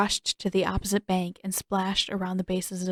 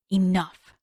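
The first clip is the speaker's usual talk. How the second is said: hissed. Acted. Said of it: "the woman hissed".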